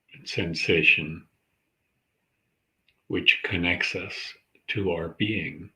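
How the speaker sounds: calm, measured meditation guide; unhurried centering practice, leaving space between phrases; guided meditation. Acted. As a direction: guide listeners gently into their breath, with long pauses.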